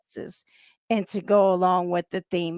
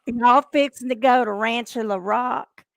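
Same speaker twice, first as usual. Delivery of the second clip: Arkansas twang, half-laughing. Shown as a demonstration. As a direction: echo it in Arkansas country twang. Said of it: "See, I can have twang".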